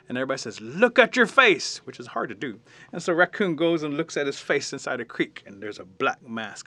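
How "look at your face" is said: high, loud and drawn out; astonished exclamation. Acted. Everybody sees the raccoon's face, acted astonished cry. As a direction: exclaim slowly in acted amazement.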